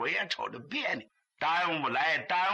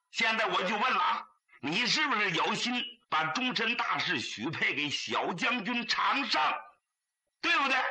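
a lightly voiced brother, pitched higher and pressing; higher, insistent older brother voice; urging older brother; 3 semitones higher than usual. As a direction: push the crying sister for a straight answer. Brother presses sister for answer.

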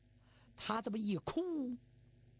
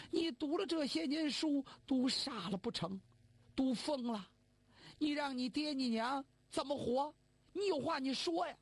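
higher, worried mother pressing her son; upset old mother pleading; 5 semitones higher than usual. Acted. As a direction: plead with him to speak, rising in worry. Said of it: "我说". (母亲焦急地追问儿子)

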